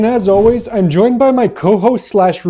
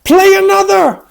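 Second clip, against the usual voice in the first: high loud eager cry for more; gleeful demand; 9 semitones higher, 4 dB louder than usual. Acted. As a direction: beg for more with glee.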